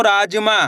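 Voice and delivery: "राजमा" with a long, held "रा"; drawn-out first syllable. Shown as a demonstration. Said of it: "उच्चारण खींच को रा".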